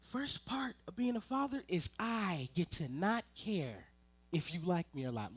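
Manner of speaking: normal talking voice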